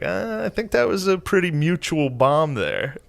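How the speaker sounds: high-voiced, hedging objection; tentative pushback. Comic tells his friend they both bombed, high tentative objection.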